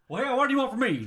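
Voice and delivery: high, loud fed-up whine; exasperated mock dad. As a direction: throw up your hands, done with it. Mocking dad's reply.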